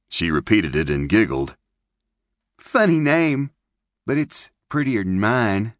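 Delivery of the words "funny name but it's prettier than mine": put-on high, bright little girl; young girl voice. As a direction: voice her like a chatty young girl. Narrator voices Maybelle.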